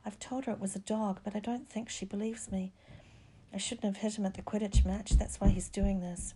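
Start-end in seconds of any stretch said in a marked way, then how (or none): 0.1-2.7 soft whispered complaint. A narrator's reading. Bedridden boy tells friends of his bite, whispering. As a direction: complain in a hushed, higher voice. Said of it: "he whispered".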